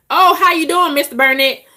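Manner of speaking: high, loud syrupy bank-teller welcome; mock sweet greeting. Imitating the banker greeting the white customer, fawning and high. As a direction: gush the hello like a fawning banker.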